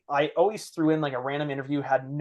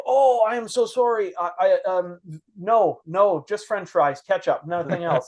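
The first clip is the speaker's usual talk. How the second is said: higher, louder, lightly voiced embarrassed coach; flustered Swedish coach; 4 semitones higher, 4 dB louder than usual. Coach realizes his mistake, lightly voiced embarrassed apology. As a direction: play the coach suddenly apologetic.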